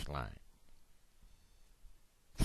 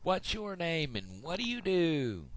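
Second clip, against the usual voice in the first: big-mouth frog; 10 semitones higher than usual. Acted. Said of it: "I'm the big mouth frog".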